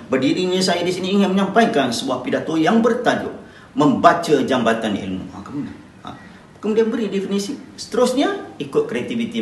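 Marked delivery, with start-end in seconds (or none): 0.1-5.3 louder when naming the title; raised voice for title. Shown as a demonstration. Teacher shows pupils how to announce the title. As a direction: lift the voice so the title lands. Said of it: "kamu kena tinggikan suara".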